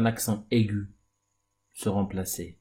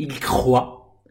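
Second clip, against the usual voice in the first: slow clear demo; 2 semitones higher, 4 dB louder than usual. Shown as a demonstration. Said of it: "c'est le verbe croître".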